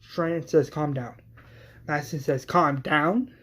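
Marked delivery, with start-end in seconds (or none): 0.7-1.2 soft, falling request; calming. Acted. Strand's take, answered by Madison. 2.5-3.3 offended question with a rising end; indignant, rising retort; incredulous echo. Acted. Madison throws the words back.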